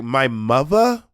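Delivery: "mother" drawn out as "muvva", rising; slow, questioning echo of "mother" as "muvva"; mocked New York pronunciation. Host replaying her confusion at New York "mother", slow mocking echo. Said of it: "the way she said mother and father".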